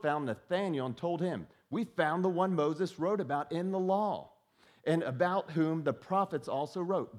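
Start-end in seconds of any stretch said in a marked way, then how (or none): 1.7-7.2 louder, higher, eager announcement; excited news. Acted. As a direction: burst out with the good news. Philip excitedly telling Nathanael.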